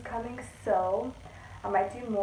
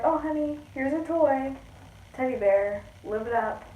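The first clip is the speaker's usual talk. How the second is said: sweet parent voice; 4 semitones higher than usual. Retold or imitated. Mock parent giving a toy.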